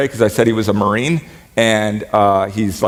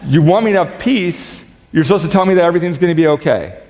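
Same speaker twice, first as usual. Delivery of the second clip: mock protest; 5 semitones higher, faster than usual. Mock complaint to Jesus.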